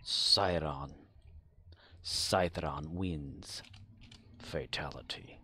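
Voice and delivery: deep, slow fighting game announcer. Retold or imitated. Streamer mimics a fighting game announcer, deep and slow. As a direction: boom it out like an arcade announcer.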